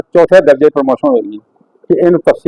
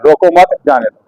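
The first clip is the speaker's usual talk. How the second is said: "रोको मत" as one unit, then "जाने दो"; break after मत; 2 semitones lower than usual. Shown as a demonstration. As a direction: attach "मत" to "रोको", slight break before "जाने दो". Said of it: "मत के बाद लगा".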